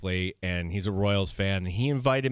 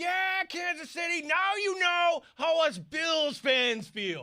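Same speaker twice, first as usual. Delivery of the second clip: play-acted, very high, drawn-out shrieking scream. Retelling taunting the upper deck at a ballgame: retelling a scream at the top of lungs. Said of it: "I just scream at the top of my lungs".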